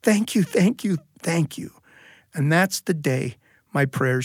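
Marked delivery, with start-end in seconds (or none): 0.0-1.7 grateful thanks. Retold or imitated. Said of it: "I said".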